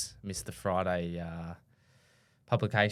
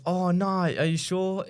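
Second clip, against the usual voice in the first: imitating the caller; 9 semitones higher, 6 dB louder, slower than usual. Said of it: "She goes".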